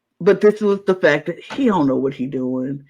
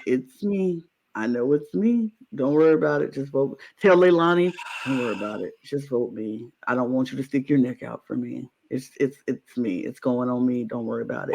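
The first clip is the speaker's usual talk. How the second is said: softer, lower resigned martyr voice; mock sad; 6 semitones lower, 5 dB quieter than usual. Acting out what the player should say, soft and resigned. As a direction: sound defeated, accepting your fate. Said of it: "look sad and like".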